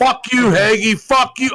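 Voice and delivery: hammed-up angry yell; mock furious outburst. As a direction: explode at him like a raging slob. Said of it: "that's when he fucking lost it".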